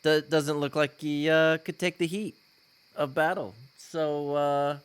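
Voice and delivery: loud, fast intimidation over a burning body; menacing loud threat. Acted. Warlock threatens the captive thug, loud and menacing. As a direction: lean in and demand answers. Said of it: "And I'm like".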